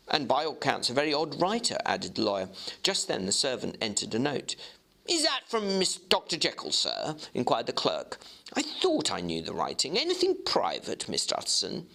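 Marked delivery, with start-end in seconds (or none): 0.1-1.8 fast, dry aside from the lawyer; lawyer Utterson. Acted. Lawyer Utterson adding a remark to his clerk, fast and dry. 5.1-7.1 higher, brisk eager clerk; clerk Guest. Acted. Clerk Guest answering the lawyer, in a higher eager voice. Clerk inquires about note. 8.5-11.9 clerk Guest. Acted. Clerk curious about note.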